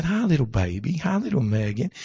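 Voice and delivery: quiet, gentle hello to a newborn daughter; father soothing his crying newborn, softly; soft greeting to newborn. Retold or imitated. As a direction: greet the baby softly, as in the womb. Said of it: "in a normal voice".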